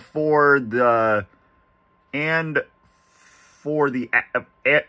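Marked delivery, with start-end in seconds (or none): 2.1-4.8 groggy, just-out-of-bed voice; sleepy, fumbling words after waking up; just woke up. Real, not acted. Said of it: "I cannot talk 'cause I just woke up".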